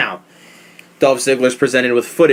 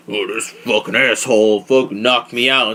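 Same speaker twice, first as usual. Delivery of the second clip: imitated complaining wrestler; 2 semitones lower than usual. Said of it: "get in the ring and go".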